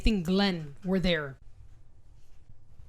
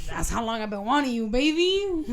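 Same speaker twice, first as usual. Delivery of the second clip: laughing mock romance; 3 dB louder than usual. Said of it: "Niggas like".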